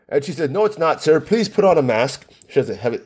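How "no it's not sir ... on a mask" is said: lightly imitated Filipino accent. Store worker insisting a customer mask up, imitated Filipino accent. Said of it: "heavy Filipino accent".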